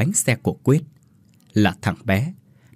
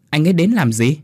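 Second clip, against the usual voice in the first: surprised question; 5 semitones higher than usual. Acted. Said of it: "Linh ngạc nhiên mà hỏi".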